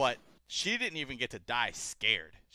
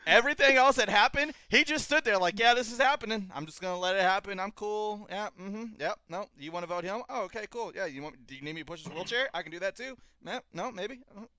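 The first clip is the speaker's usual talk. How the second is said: high, loud mocking impression of a bored Grey Worm; 8 semitones higher, 5 dB louder than usual. Friend mocking Grey Worm's lines on the podcast, high and loud mocking voice. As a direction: ham up his shrugging yes-to-everything lines.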